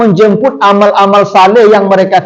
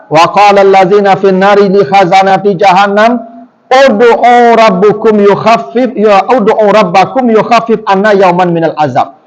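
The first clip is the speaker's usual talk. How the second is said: Quran recitation. Acted.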